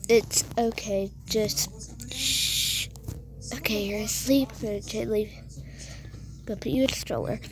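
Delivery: gentle, quiet reassurance; pretend soothing. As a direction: settle a little one to sleep. Soothing crying child to sleep.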